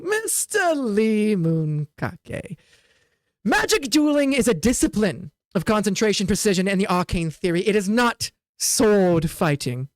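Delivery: slow and condescending, stretching Mister Lee Monkake; insulting tone. Acted. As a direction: lecture him with contempt. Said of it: "He says it like if he's, like, insulting you".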